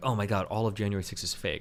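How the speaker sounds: ordinary talk, nothing marked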